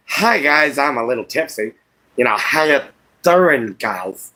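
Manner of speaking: playing a little tipsy; loose, mock-drunk greeting to the fans. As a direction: put on a slightly tipsy hello. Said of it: "you might catch me afterwards, and I might be".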